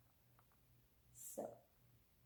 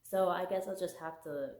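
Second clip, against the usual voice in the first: quoting the heroine. Retold or imitated. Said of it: "she says".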